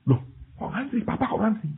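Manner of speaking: high-pitched incredulous questioning; puzzled surprise. Acted. Son sees his father waiting in line, puzzled surprise. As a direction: voice a bewildered son.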